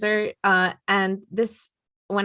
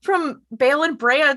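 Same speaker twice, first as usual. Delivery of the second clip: much higher, louder gleeful claim; excited joke; 9 semitones higher, 4 dB louder than usual. Real, not acted. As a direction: shout it triumphantly.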